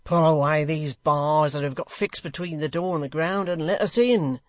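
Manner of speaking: loud, urgent commands; Hugh ordering. Acted. Hugh ordering Dennis to pull the bars, loud. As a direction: bark the orders.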